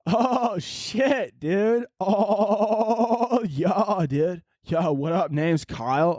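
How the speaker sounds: put-on a frat kid swaggering in; frat bro. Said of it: "Oh, I'm already in character".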